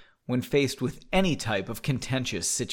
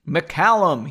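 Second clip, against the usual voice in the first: louder, sharp call of "McCallum"; shouted name; 3 semitones higher, 6 dB louder than usual. Acted. Sir Roland demands Henry respond, shouting. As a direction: shout "McCallum" to get an answer. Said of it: "he shouted".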